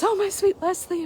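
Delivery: hammed-up princess imitation; Buttercup's cry. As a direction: swoon over the name like a fairy-tale princess. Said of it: "And then she goes".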